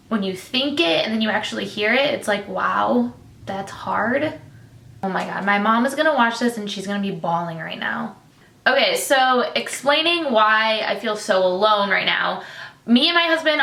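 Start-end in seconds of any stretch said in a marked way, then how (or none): 0.1-8.2 holding back tears; emotional, near tears. Real, not acted. Vlogger hearing her hard thoughts said aloud, near tears. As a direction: speak while trying not to cry. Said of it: "why I'm so emotional right now".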